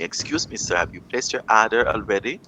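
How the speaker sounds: polite question with an American-style "order"; mock American twang, sounding the r in "order"; put-on American twang. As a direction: imitate a server's twanged American accent. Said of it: "mix the regional sound with vernacular".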